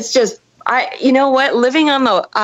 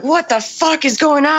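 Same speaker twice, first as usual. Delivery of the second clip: mildly raised, incredulous question; startled bewilderment; 5 semitones higher than usual. Retold or imitated. Friend waking up to the storm, mock bewilderment. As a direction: imitate a baffled friend just awake.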